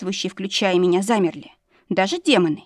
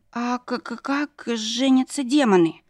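stammering fright; 4 semitones higher, slower than usual. A narrator's reading.

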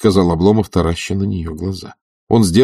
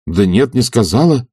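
a touch of impatience; impatient; 5 semitones higher, 4 dB louder than usual. A narrator's reading. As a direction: press the point, mildly irritated. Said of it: "с нетерпением говорил он".

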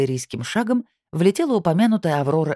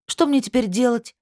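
much higher, close to crying; near tears; 9 semitones higher than usual. A narrator's reading. Анжелика fears missing ironing her dress, nearly crying. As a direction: wail it almost in tears. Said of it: "чуть не плача воскликнула".

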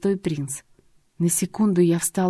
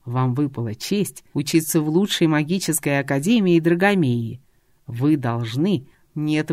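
stern prince lecturing; 3 semitones lower than usual. Acted. Dragon prince lectures the class.

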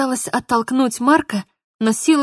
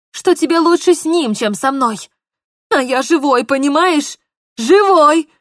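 rising, loud impassioned; passionate plea; 3 semitones higher, 4 dB louder than usual. Acted. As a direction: pour out his feelings. Mark pleading passionately.

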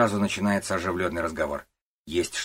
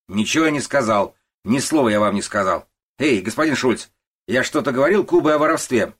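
loud, higher, bullying denial; loud blustering boss; 6 semitones higher, 9 dB louder than usual. Acted. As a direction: drown the old man out. Начальник кричит, зовёт Шульца. (громкий напористый начальник отпирается)

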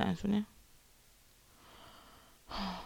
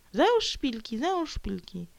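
a light mock of a nagging adviser, higher; 5 semitones higher than usual. Vlogger mocking people who tell her to wear heels. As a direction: parrot the nag, pitched up. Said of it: "Zacznij się ubierać adekwatnie".

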